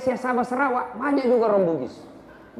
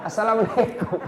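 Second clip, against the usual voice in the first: laughing salam. Retold or imitated. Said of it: "apa usah gitu assamlek".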